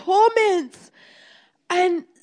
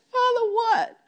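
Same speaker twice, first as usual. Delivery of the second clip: real tearful cry, higher voice; crying plea; 4 semitones higher, 3 dB quieter than usual. Real, not acted. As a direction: plead through tears. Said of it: "And I'm just crying".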